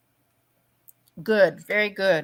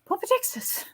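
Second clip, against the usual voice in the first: high, drawled Papa Texas; drawled shout-out; 11 semitones higher, 3 dB quieter than usual. Acted. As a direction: sing out Papa Texas playfully. Playful drawn-out call.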